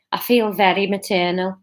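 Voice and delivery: Liverpool-tinged character voice; lightly Scouse Catherine; still Scouse. Acted. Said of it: "Still Scouse".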